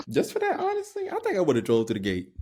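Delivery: high playful outrage; hamming up being offended; mock indignation. Real, not acted. Jokey indignation.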